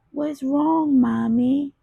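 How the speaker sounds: put-on high, small child asking what's wrong; little girl voice. A narrator's reading. Daughter asks crying mother, tiny high child voice. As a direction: sound like a tiny worried daughter. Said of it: "in her little tiny voice".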